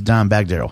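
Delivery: Dime set apart from Bagdaryl; odd name split. Real, not acted. Telling how he was introduced to Dime, name oddly split. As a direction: break after Dime, running Bagdaryl together as a surname. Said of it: "put a weird, uh, spin on his name".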